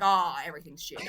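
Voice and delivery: a hint of deadpan Australian self-parody; Australian accent. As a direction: lightly send up a downbeat Australian. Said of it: "that's how we sound. That's our accent".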